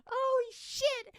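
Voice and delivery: retold excited scream. Fan reliving his reaction to the surprise return, screaming excitedly. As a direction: belt it out like the crowd popping. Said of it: "I was fucking screaming".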